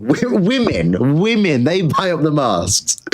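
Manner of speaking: high laughing stretch; laughing mock. Real, not acted. Streamer laughs while mocking women, high and stretched. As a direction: laugh through the word.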